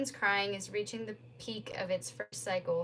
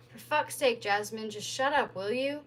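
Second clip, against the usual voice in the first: shouted; 3 dB louder than usual. Acted. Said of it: "he shouts".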